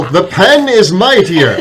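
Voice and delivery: loud, high, slow battle cry; triumphant yell. Acted. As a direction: yell it like a hero's catchphrase. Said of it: "And I yell".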